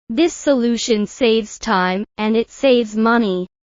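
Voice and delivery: a pause after "time", then "saves" stressed; emphasis by breaking. Shown as a demonstration. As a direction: split it and push "saves".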